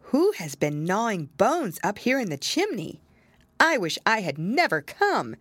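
a small kitten growing nervous. Acted. Tom Kitten speaks in story.

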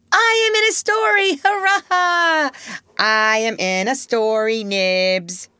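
very high, loud jubilant cry; thrilled child. Acted. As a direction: crow with joy like a small boy.

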